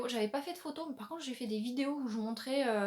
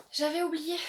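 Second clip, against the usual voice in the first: surprised realisation; 5 semitones higher, 5 dB louder than usual. Real, not acted. Repeats louder, higher.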